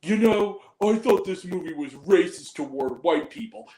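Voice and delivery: imitating a loud moviegoer; mock the man announcing his opinion to the room. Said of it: "had the gall to say out loud".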